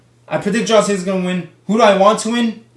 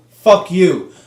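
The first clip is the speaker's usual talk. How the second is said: punchy, louder quoted "Fuck you"; quoting a curse; 6 dB louder than usual. Retold or imitated. Vlogger quoting Punk to the smarks, punchy louder curse. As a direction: spit the quote out like Punk did. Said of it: "and I quote".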